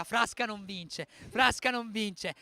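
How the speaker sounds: imitated teasing chant, slowly stretched out; mock shout, building on the repeat; Mancino. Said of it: "sta urlando Mancino a Frasca". (coro scherzoso imitato, scandito lentamente)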